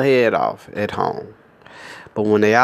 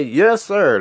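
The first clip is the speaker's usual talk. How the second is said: obedient robot; 5 semitones higher than usual. Retold or imitated.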